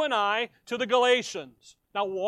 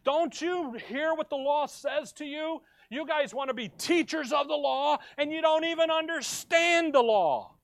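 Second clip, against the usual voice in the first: lightly acted stern scolding, pitched higher; stern Paul; 5 semitones higher than usual. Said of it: "So he's being stern with them".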